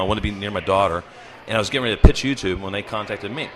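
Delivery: spraying spit on the mic; talking too close to the mic, spitting; spitting into the microphone. Real, not acted. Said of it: "I'm spitting into the microphone".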